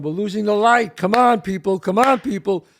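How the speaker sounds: loud, urgent push to hurry the crew; rally the set before the light goes; impatient director shouting at the crew; director yelling. Retold or imitated. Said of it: "and he's going".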